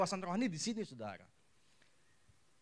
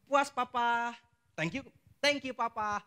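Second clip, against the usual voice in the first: put-on pleased child; 6 semitones higher, 3 dB louder, slower than usual. Child thanking father happily.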